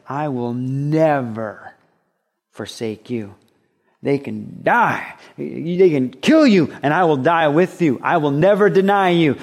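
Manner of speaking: slow, drawn-out vow of loyalty; a touch of bold declaration, building as it goes; lightly acted Peter. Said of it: "Peter was the one who just said".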